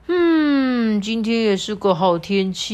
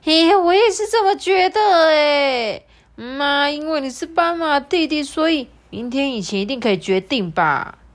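high squeaky animal voice; 8 semitones higher, 5 dB louder than usual. Acted. Another animal agrees.

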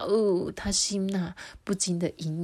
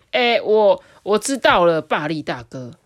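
trembling reply; 9 dB louder than usual. Acted. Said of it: "卡兹回答的全身发抖".

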